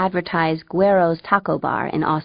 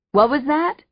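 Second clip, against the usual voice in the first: loudly teasing, higher pitched; 8 semitones higher, 3 dB louder than usual. Acted. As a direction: call it out loud, hand to ear. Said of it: "Fang said loudly".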